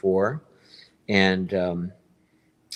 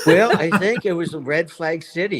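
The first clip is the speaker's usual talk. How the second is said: chuckling through the words, a bit higher and louder; laughing; 10 semitones higher, 6 dB louder than usual. Real, not acted. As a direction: laugh it off while admitting it. Laughing at red flag remark.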